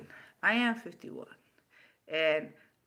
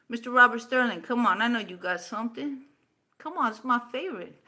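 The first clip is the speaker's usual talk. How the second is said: higher, louder playful taunt; goading call; 5 semitones higher, 5 dB louder than usual. Real, not acted. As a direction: egg him on to reply. Goading the troll.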